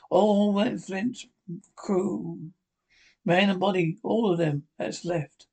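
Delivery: a hint of a sick old pirate coaxing a boy; old sea captain. Sick captain coaxes Jim for rum, lightly voiced wheedling seaman. Captain tells of Flint's crew.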